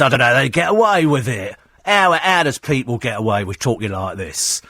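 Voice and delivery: lightly mocking London cabbie voice; common cab driver. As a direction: imitate an indignant, common cabbie. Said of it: "potty-mouthed cab driver 'cause they're all a bit common".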